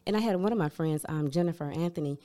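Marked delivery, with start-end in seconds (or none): none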